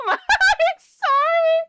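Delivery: high, loud sorry through laughter; real helpless laughter; laughing sorry. Real, not acted. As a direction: gasp it out while laughing. Laughing apology.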